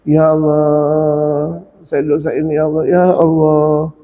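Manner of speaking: slow, lightly voiced plea to God; a hint of a sinner's lament; mock repentant prayer.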